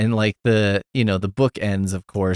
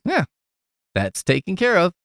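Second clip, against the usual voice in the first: lightly raised, casual brush-off; breezy dismissive; 9 semitones higher than usual. Retold or imitated. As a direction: toss it off like a done chore. Frankenstein repeats the shrug.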